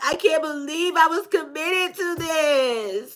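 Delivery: slow whine breaking into laughter; hammed-up tearful moan, dragged out; mock crying complaint. Reader voicing a disgusted, regretful partner, laughing mock sob.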